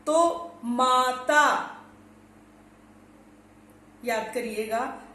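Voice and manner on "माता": माता with the आ held long and slow; stretched long vowel. Shown as a demonstration. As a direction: hold the long आ in माता slowly. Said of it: "आ के लिए शब्द लेते हैं". (माता में आ को लंबा खींचकर)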